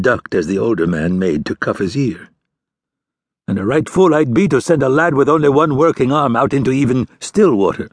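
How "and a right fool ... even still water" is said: put-on whining young man. Young fisherman whining at his father about the cold water. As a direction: complain like a son dodging the job. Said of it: "the young man whined".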